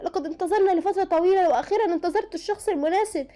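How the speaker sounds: high-pitched, acted tearful plea; tearful distress. A narrator's reading. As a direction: voice lifted in mild acted distress. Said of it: "دموعها نزلت وما قدرتش تاخد نفسها".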